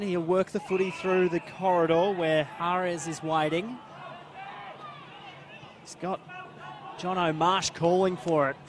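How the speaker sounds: brisk, animated match commentary; live play-by-play. Real, not acted. Commentator following the footy up the ground, animated play-by-play. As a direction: keep driving the call along with the ball.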